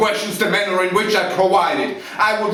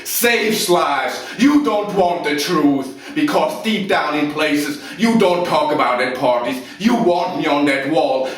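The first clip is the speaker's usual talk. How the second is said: loud, raised-pitch furious outburst; angry tirade; 4 semitones higher, 4 dB louder than usual. Acted. Officer defending himself to Lieutenant Weinberg, loud angry tirade. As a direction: thunder contemptuously, leaning hard on the key words. Officer erupts under questioning, acted monologue.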